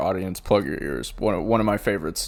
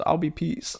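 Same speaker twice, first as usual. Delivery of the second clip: silly high voice; 8 semitones higher, 3 dB quieter than usual. Retold or imitated. Siggy's silly reply in bed.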